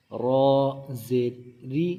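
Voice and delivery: heavy letter name رو, then a light, thin ری; thinned ra. Shown as a demonstration. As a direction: spell it out, lightening the r on ری. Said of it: "رو کے نیچے زیر ہو تو اس کو باریک پڑھیں گے".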